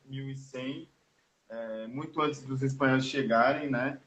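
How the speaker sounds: faint, distant voice, far from mic; speaking away from the microphone; phone held away. Real, not acted. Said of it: "Tá um pouco baixo sua voz". (voz longe do microfone)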